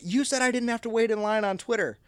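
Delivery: high mock whine of an angry customer. Retelling the angry customer at the booth, mock whine.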